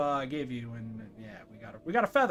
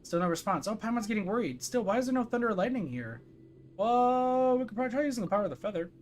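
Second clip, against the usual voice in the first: higher-pitched companion thinking aloud; Paimon, puzzled; 7 semitones higher than usual. Acted. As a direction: puzzle it out in a high character voice. Voices game character Paimon.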